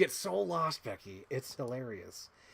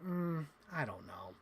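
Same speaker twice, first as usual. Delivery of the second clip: doubtful streamer imitation; 6 dB quieter, slower than usual. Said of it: "And Becky's like".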